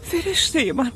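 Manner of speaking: crying. Acted. Mother reunited with child.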